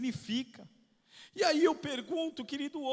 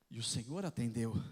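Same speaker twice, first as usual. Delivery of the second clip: soft emphatic statement; 13 semitones lower, 10 dB quieter than usual. Acted. Repeated softly for effect.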